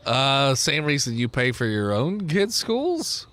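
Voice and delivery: low, slow, puzzled reply; unimpressed tribe leader. Acted. Tribe member explains paying for schools, low puzzled voice. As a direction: answer low and hesitant.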